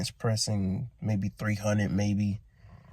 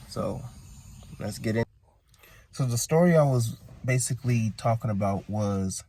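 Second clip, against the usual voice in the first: groggy just-woke-up voice; sleepy early morning voice. Real, not acted. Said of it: "Excuse the morning voice".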